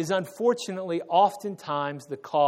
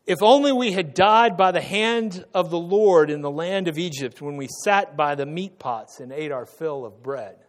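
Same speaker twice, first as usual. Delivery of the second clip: lament of the Israelites; 6 dB louder than usual. Retold or imitated. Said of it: "They say".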